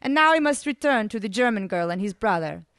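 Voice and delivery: put-on high, accented, careful English; lilting foreign translator's voice; regretful interpreter. A narrator's reading. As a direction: pass on the message apologetically. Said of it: "informed me regretfully".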